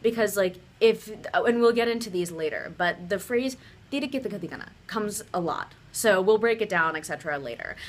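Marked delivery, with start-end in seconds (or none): 3.9-4.6 "tiri kita ketika na" with quick Hindi dental consonants; tongue forward, crisp dentals on "tiri kita ketika na"; Hindi pronunciation. Shown as a demonstration. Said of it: "have the right pronunciation".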